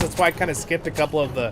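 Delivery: ordinary delivery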